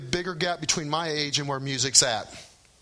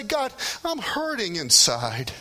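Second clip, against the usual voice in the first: slow, gentle prayer to God; tender sample prayer; slower than usual. Shown as a demonstration. Alone at home praying to God, slow and tender. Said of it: "you might wanna say".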